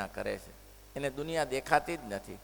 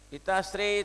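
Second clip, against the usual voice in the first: calling out; 6 semitones higher, 5 dB louder than usual. Retold or imitated. Son calls out for money.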